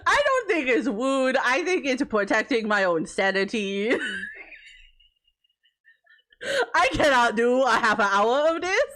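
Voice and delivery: sweet princess voice, as if redeemed; cartoon princess. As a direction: play a storybook princess. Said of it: "they don't think I just talk like this all the time".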